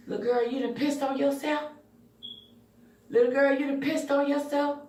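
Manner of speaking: put-on father confronting his little girl; stern dad. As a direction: voice the father catching her out. Dad discovering the accident.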